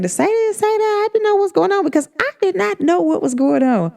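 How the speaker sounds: high, rambling imitation of a flustered friend; lightly mocking high-pitched friend voice; mocking quote of friend. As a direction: mimic a confused friend talking in circles. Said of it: "she said".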